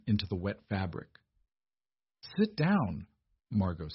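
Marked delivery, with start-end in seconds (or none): 2.4-3.1 steady, firm, high "Sit down"; firm command. A narrator's reading. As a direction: give the order without a tremor. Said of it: "Her voice didn't shake".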